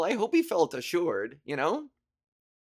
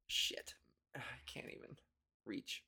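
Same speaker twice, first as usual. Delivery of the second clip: whisper; 18 dB quieter than usual. Real, not acted. Straining to recall a name.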